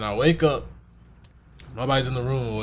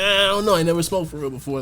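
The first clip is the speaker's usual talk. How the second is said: mock hesitant self; 5 semitones higher than usual. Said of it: "I'm like".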